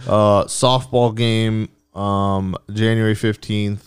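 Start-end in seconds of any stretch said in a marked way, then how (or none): 0.1-1.7 "softball" said very slowly with soft drawn out and leaned on; stress on soft. Shown as a demonstration. Host plugging the softball game, drawn-out stress on soft. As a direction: lean hard on the soft in "softball", slow it right down. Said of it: "emphasis on soft".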